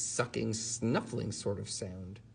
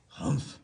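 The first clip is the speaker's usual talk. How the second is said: cross humph. Acted. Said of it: "he said crossly".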